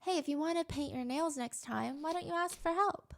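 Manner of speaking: kindly ask, like a calm mom; gentle parent. Pretend. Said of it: "the appropriate response would be".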